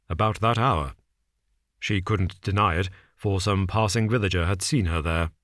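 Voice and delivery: a hint of a cool, measured detective. Holmes lays out the case to Watson, calm and measured. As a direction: set out the facts calmly, a shade low.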